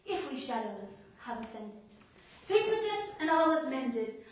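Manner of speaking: lightly voiced Puck, dying to a hush; Puck monologue. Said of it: "Puck says".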